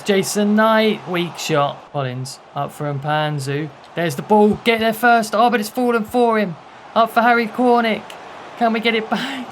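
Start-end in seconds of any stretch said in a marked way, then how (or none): 3.9-9.5 higher, louder, breathless urgency; frantic excitement. Real, not acted. Manager yelling at his team's last attack, frantic. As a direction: urge the ball forward in a rush.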